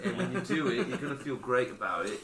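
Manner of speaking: put-on a light, laughing British accent; British impression. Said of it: "I thought I was doing a British impression".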